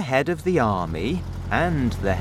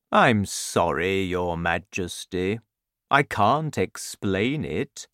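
a hint of a slow, gentle giant; kindly giant; 2 semitones lower than usual. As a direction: talk it through slowly like a friendly giant. BFG voiced in story.

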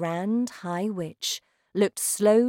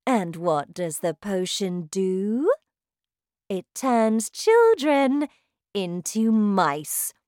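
shouting witch; 3 semitones higher, 6 dB louder than usual. Acted. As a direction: bellow like a terrifying witch queen. Witch explains her plan.

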